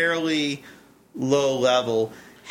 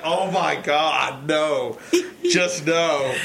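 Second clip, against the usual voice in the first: appalled reaction; slower than usual. Retold or imitated. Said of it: "I'm just like".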